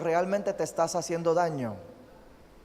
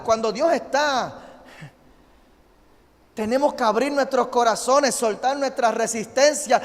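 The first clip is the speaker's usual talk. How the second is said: higher, louder, building surrender prayer; fervent preaching; 5 semitones higher, 5 dB louder than usual. Acted. Pastor voicing Saul's surrender to the Lord, fervent full-force prayer. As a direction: pour it out like a fervent altar call.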